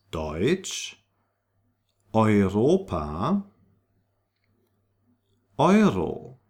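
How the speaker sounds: Deutsch, Europa, Euro with an oy vowel; drawn-out oy in Deutsch and Europa. Shown as a demonstration. Teacher models German EU for learners, clear oy sound. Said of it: "is pronounced like oi".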